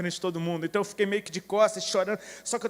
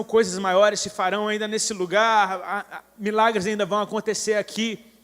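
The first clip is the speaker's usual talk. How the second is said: fervent declaration; 2 semitones higher, 5 dB louder than usual. Retold or imitated. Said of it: "eu comecei a declarar".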